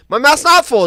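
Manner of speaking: lightly voiced child; kid protesting. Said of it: "And I'd go".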